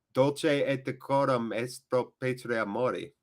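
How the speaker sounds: slow, soft, careful Latin recital, Dolce as DOL-chay; reciting Latin. Shown as a demonstration. Streamer reciting a Latin motto to chat, carefully. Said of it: "Oh, that's Latin".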